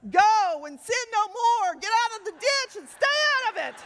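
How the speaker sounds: stern loud command. Acted. Husband scolds cat, preached.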